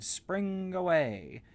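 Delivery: high, loud and slow call; spring the words out like a kangaroo; bouncy doctor cry. Acted. Kangaroo doctor calling as he sets off, high and loud.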